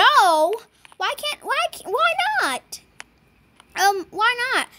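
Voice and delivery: high pleading "why not"; upset protest. Real, not acted. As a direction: whine in disbelief. Trade refused.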